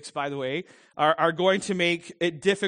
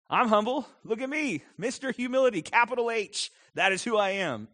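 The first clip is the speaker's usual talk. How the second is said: hammed-up proud boasting, pitched higher; mock arrogant boast; 5 semitones higher than usual. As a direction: puff yourself up as Mister Humility, tongue in cheek. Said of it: "that's a little bit of an oxymoron".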